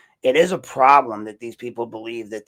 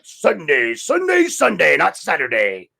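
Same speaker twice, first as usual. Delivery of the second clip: loud, high-swooping announcer hype; event announcer shout; 6 semitones higher, 7 dB louder than usual. Acted. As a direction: belt it out like an arena promo.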